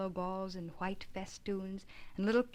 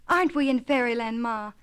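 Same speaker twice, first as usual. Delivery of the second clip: joyful cry; 2 semitones higher, 9 dB louder than usual. Acted. Little Davy asking his mother, loud with joy. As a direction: ask it bursting with joy. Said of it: "out of his wits with joy".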